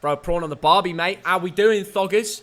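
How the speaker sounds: light mock Australian accent; Australian accent slipping into Cockney; Aussie accent. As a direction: put on a shaky-authentic Aussie greeting. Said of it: "do your Aussie accent".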